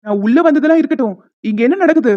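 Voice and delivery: loud, indignant demand; angry confrontation. Acted. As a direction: burst in and demand an explanation. Friend walks in on the embrace. (கோபமாக அதட்டிக் கேட்பது)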